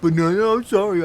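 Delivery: loud bursts of mock indignation; mad, sarcastic. Pupil answering teacher who fussed over wording, sarcastically mad. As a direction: push the sarcastic apology out hard. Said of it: "I got so mad. I was like".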